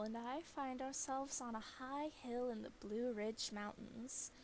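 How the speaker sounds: hushed cryptid documentary voice; documentary host. Acted. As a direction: introduce the hunt like a wildlife TV host. Reads in-game wildlife documentary host.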